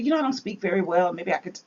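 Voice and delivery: soft, quick mumbled excuse; meek excuse. Pretend. Moses telling God he can't speak well, softly mumbling. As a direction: shrink back and mumble.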